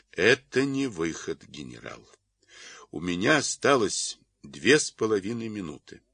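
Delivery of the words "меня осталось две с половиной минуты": ordinary delivery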